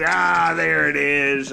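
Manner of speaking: high, drawn-out cheer for a pet; excited cry. Real, not acted. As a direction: stretch it out high as the pet does it. Pet finally does it.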